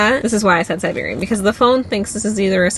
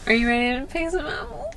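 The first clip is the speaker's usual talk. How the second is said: pun delivery; 5 semitones higher, 6 dB quieter than usual. Shown as a demonstration. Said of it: "I'm trying to make a pun".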